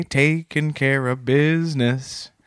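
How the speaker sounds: slow, drawn-out lyric quote; quoting a musician. Retold or imitated. Quoting a song to his cohost, slow and drawn out. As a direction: drag the words out like a song title. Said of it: "as Randy Bachman would say".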